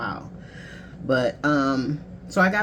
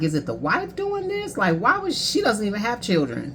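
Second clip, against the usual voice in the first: higher, incredulous retold question; indignant disbelief; 6 semitones higher than usual. Asking herself about the ex's new wife, indignant and much higher. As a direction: wonder aloud whether the new wife is behind it. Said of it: "And I'm like".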